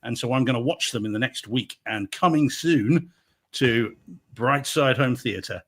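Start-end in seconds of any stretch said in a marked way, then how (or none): 1.9-5.6 slow, drawn-out movie trailer announcement; trailer announcer. Pretend. Podcast host plugging his home theatre screenings, trailer-style. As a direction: announce it like a coming attraction. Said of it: "announcer-style slow plug".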